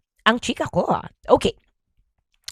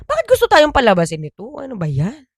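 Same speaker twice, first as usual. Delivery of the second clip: put-on puzzled kids; 4 semitones higher than usual. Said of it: "Nagulat daw sila".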